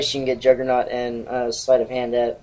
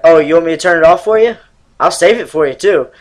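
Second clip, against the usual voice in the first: sarcastic stepdad; 4 semitones higher, 8 dB louder than usual. Retold or imitated. Stepdad sarcastic about the game.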